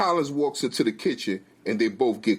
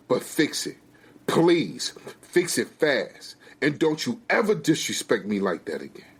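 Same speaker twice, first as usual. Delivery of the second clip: angry scolding; 5 semitones higher than usual. Acted. Wife berates husband, jerking away.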